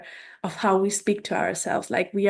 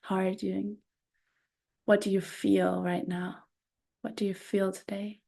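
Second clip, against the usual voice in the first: soft, gentle questions asked of herself; tender self-talk; 7 dB quieter than usual. Shown as a demonstration. Showing the morning mirror practice, softly tender. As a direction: ask yourself kindly, like checking on a friend. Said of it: "For example, Natalie".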